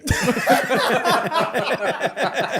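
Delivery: loud, high helpless laugh; real burst of laughter. Real, not acted. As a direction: crack up laughing at the memory.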